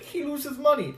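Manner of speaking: lightly put-on Asian accent; imitated Asian accent. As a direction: do the floor manager's Asian accent. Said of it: "really had an accent".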